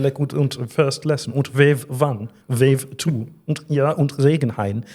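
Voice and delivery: hammed-up German accent while waving; fake German gibberish. Shown as a demonstration. Greeting the German girl in a hammed-up German gibberish accent. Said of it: "you just do the waves".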